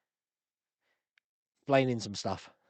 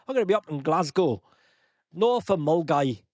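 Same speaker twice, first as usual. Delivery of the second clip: put-on Scottish accent; 5 dB louder than usual. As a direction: try out a Scottish accent for fun. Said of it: "What sort of language was that?".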